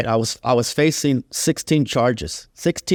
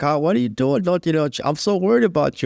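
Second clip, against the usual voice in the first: higher-pitched mock fretting, no real sobs; imitated tearful worry; 6 semitones higher than usual. Grandmother to grandson in jail, imitated tearful worry. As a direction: lightly imitate a worried, crying grandmother. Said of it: "she would start crying".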